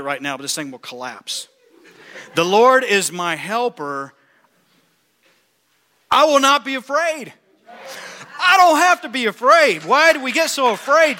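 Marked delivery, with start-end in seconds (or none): 2.3-4.1 slow, louder; building declaration. Acted. Preacher to congregation, slow building proclamation. 6.1-11.2 much higher, louder shout; shouted declaration. Acted. Preacher shouting to church, triumphant.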